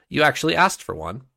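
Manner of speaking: mock her lightly with a lift; amused. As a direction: court fool teasing the condemned forger. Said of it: "the amused voice came".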